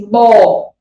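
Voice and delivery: "bó" said loud and drawn out; syllable sounded out. Shown as a demonstration. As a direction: sound out "bó" clearly for a child. ("bó" alongado e bem forte)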